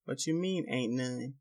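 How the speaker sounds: disbelieving, pitch rising on mean; incredulous. Acted. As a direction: throw the words back in disbelief. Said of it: "Bear asks".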